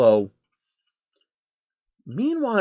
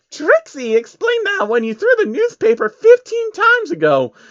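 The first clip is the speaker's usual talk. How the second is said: deadpan Trixie; 5 dB louder than usual. A narrator's reading. Trixie answers Soros flatly in her high pony voice. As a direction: state it like the obvious.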